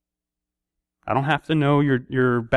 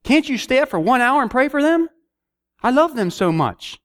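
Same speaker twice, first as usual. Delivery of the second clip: high, loud, half-joking scolding; exasperated calling out; 11 semitones higher, 3 dB louder than usual. Retold or imitated. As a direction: call him out for dozing off. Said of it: "I can just hear God saying".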